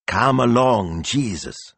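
high-pitched coaxing lady; doting, managing churchgoer; bossy signora. A narrator's reading. Signora leads priest away.

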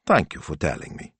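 understated, easy thanks; mild, low-key acknowledgement; said lightly. A narrator's reading. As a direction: thank her gently and casually. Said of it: "said Signor Speranza lightly".

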